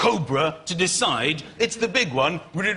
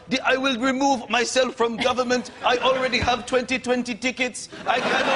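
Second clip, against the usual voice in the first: Mugabe; 4 semitones higher than usual. Acted. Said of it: "Like he's gonna go".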